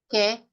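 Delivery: "ke" with the vowel held long; prolonged vowel. Shown as a demonstration. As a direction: stretch the e in "ke". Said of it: "Prolong ang A".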